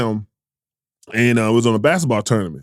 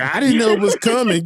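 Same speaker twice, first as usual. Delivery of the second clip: mock innocent voice; 8 semitones higher than usual. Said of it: "You're like".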